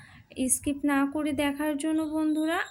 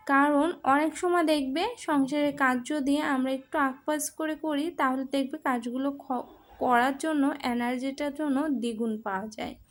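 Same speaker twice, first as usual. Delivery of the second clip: talking with a toothbrush in mouth; while brushing teeth. Real, not acted. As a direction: speak around the brush, slightly muffled. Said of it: "brush করতে করতে".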